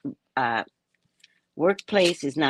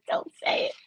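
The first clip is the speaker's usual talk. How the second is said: whispered warning; 5 dB quieter than usual. Real, not acted. Laughing self-warning whisper.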